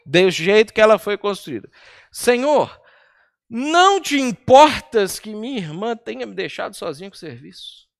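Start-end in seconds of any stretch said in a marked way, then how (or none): 2.1-7.9 loud, pointed complaint to the Lord; exasperated Marta quoting scripture; indignant demand. Retold or imitated. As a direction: demand it like a put-upon hostess. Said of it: "que tom de voz deve ter sido".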